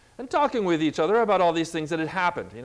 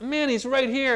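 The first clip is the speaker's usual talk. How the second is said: excited realization; 7 semitones higher than usual. Acted. Acted believer feeling God is near.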